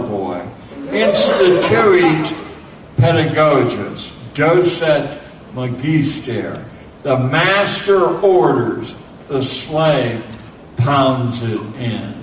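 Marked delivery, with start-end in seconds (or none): 0.9-6.6 Latin accent. Shown as a demonstration. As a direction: recite it like an old altar boy. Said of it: "I dare you to challenge my Latin accent".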